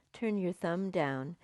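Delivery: ordinary talk, nothing marked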